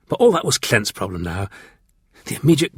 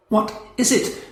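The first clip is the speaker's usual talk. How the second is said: higher, a touch of fear; fearful; 10 semitones higher than usual. A narrator's reading. Frightened girl asking about the weapon, higher and timid. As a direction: ask it timidly. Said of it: "she asked fearfully".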